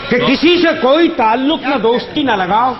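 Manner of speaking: measured, lingering verse delivery; poetry recitation. Acted. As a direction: recite each line slowly for effect. Repeats the couplets.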